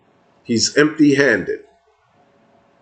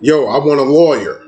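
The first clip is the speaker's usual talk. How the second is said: said out loud; 3 semitones higher than usual. Retold or imitated. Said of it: "out loud".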